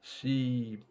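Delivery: usual speaking voice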